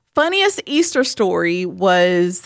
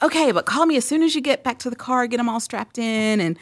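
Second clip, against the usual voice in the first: quick, higher imitation of an eager dad; eager husband's request; 5 semitones higher, much faster than usual. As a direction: rattle off instructions like an excited new father. Husband pleading over the phone.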